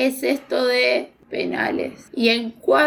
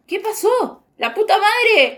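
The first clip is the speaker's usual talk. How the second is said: higher, slow shocked cry of dismay; shocked the goals came, louder; retold shock; 8 semitones higher, 3 dB louder, slower than usual. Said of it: "En plan". (grito de sorpresa recreado, más agudo y lento)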